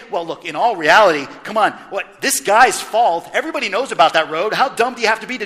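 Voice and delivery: dismissive excuse. Pretend. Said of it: "he didn't say".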